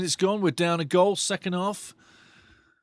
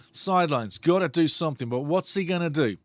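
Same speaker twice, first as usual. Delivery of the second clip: normal talking voice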